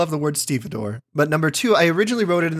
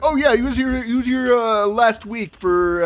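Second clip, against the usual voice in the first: higher-pitched dockworker digging through memory; put-on witness voice, pitched up; stevedore recalling; 6 semitones higher, slower than usual. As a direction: play a helpful dockhand recalling a customer. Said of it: "he remembers everything".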